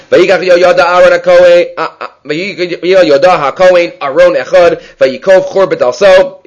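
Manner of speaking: sing-song quoting of scripture; verse recitation. Real, not acted.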